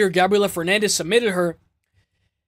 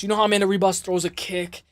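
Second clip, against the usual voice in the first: usual speaking voice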